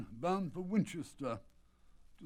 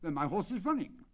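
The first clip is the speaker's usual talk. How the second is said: a touch of agitation, pitched up; mildly anxious exclamation; agitated cry; 4 semitones higher than usual. Acted. The colonel fretting over his missing horse, lightly agitated. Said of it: "cried the colonel in great agitation".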